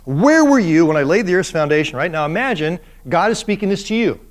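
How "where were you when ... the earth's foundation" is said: God's challenge. Retold or imitated. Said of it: "And he says this".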